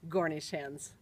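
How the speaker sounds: "Gornish" starting with a g; mother's mispronunciation. Retold or imitated. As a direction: say "Gornish hens" for Cornish hens. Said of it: "she usually said".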